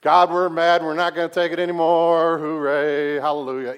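loud, cheery mock song intro; mock worship leader. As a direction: shout it like a rowdy praise chant. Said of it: "can you imagine Nick coming out".

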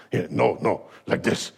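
lightly voiced old master correcting; Miyagi. Miyagi corrects Daniel's form, lightly voiced master. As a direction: correct him gently but firmly. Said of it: "you hear Miyagi go".

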